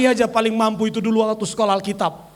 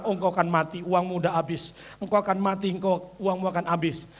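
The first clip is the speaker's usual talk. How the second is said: much lower and softer, sinister; devil's whisper; 8 semitones lower, 7 dB quieter than usual. Retold or imitated. Devil's voice taunting believer, low menacing murmur. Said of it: "ada suara iblis datang".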